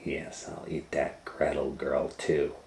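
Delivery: quiet scheming witch; scheming mutter. Acted. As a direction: plot under her breath. Witch plots to herself.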